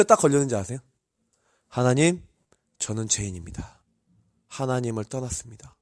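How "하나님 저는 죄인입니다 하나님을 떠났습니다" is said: low, hushed re-enacted prayer; tearful confession, retold. Preacher re-enacting praying alone in church, hushed confession. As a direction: drop to a soft, penitent murmur. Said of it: "눈물이 펑펑 나는".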